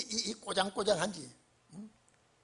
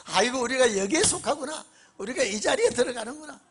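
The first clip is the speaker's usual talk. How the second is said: laughing; 3 semitones higher, 4 dB louder than usual. Acted. Preacher marvels, laughing.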